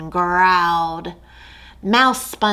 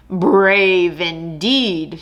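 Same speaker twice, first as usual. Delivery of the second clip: slow, amused lion drawl; a lazy king unimpressed; lightly voiced lion; dry lion; much slower than usual.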